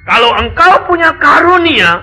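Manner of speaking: fervent exhortation. Real, not acted. Preacher exhorting congregation.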